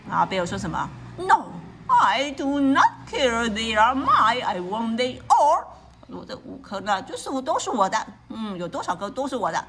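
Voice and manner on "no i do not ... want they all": louder gloating bear; greedy bear. Acted. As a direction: claim them all, laughing greedily. Greedy bear refuses mouse.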